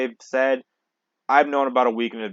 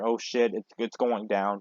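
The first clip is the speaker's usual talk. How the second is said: mild doomer; 2 semitones lower, 4 dB quieter, slower than usual. Retold or imitated. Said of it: "I was kinda doomer".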